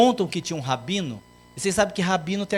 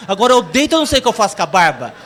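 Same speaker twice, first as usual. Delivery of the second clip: exasperated laughing complaint; 4 semitones higher, 9 dB louder, much faster than usual. Acted. Sleepless teacher complains.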